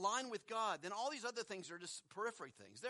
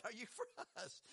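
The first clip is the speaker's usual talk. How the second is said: "for" stressed, said softer; 7 dB quieter than usual. Shown as a demonstration. Re-reading the angel's question, softly stressing "for". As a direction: soften it and lean on "for". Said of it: "Think about what he said".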